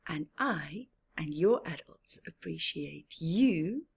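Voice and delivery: soft, whispered reassurance; soft whispered lesson; gentle moral. Real, not acted.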